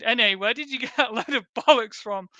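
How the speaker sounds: reading the reply through a laugh; laughing disbelief. Retold or imitated. Retelling his reply to the reader, laughing. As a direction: chuckle through the word bollocks. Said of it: "I replied".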